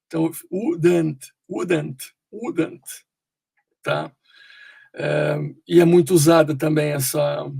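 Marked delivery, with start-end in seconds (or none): 0.5-2.8 "wouldn't" with an uh between D and N; schwa after D. Shown as a demonstration. Teacher showing the hidden vowel, "wouldn't" as woo-dunt. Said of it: "entre o D e o E tem aquele A".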